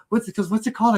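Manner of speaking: put-on high curious kid voice; imitating little daughter. Dad imitating his daughter demanding the game's name, curious. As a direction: ask like an impatient child. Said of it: "she goes".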